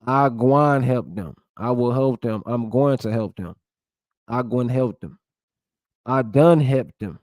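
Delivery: Gullah Geechee creole sentences, lightly voiced; reading Gullah examples. Shown as a demonstration. Vlogger reads Gullah grammar examples to viewers, lightly accented. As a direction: sound out the Gullah verb forms, a hint of Gullah accent. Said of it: "'cause I talk like that".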